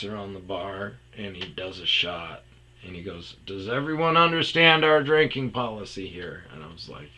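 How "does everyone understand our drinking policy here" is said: higher, louder formal question; a stern manager checking rules; mock-serious boss.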